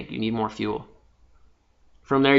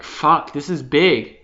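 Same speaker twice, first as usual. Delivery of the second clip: louder, rising overwhelmed voice; 2 semitones higher, 6 dB louder than usual. Retold or imitated. Overwhelmed by a huge vision, mildly panicked loud voice. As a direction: let the size of it hit you, half acted. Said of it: "overwhelmment hits you".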